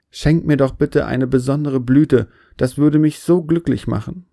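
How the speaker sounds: mild whine, begging a favour; wheedling lament. Acted. Baobab asking God for a special blossom, lamenting. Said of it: "jammerte der Baum".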